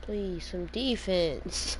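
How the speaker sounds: slow, drawn-out please, some defense; weary plea. Real, not acted. Streamer begging teammates for defense, weary. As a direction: beg them with fading patience.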